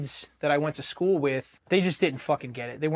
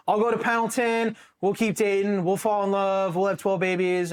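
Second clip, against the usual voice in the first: dreamy excitement; 5 semitones higher than usual. Retold or imitated. Daydreaming about the Pendleton future.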